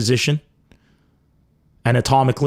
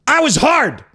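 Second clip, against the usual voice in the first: excited; 10 semitones higher than usual. Acted. Punchline repeat, raised voice.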